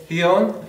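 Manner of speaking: ción said slowly as "thión", tongue between the teeth. Shown as a demonstration. Teacher slowly demonstrating the Madrid th in ción. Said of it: "es la fricativa dental sorda".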